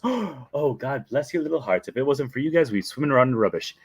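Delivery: lightly put-on nanny accent; effusive thanks, lightly acted; Mary Poppins. Nanny thanking custodians for their work, lightly put-on voice. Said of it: "And she goes".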